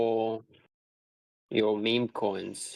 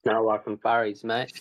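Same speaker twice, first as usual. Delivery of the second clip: playful mock Australian lilt; put-on Australian accent. Tossing the streamer a slang sign-off, put-on Australian accent. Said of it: "I just put that accent on".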